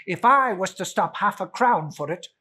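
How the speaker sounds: loud stress on not; grumbling Scrooge. Acted. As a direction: grumble at the clerk.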